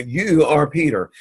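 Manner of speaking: "You" picked out with firm emphasis; stress on You. Shown as a demonstration. Teacher showing students the emphasis in the verse, stress on You. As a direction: lean on "You", then let "are Peter" fall. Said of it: "it's emphasizing the idea".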